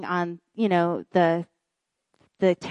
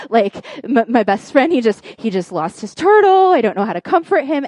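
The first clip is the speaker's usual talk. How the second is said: mock-panicked, stumbling and rushed at the end; panic mode; 5 dB louder than usual. Husband unsure how to comfort his friend, mock panic. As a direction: babble in imitation of a flustered husband. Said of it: "total panic mode".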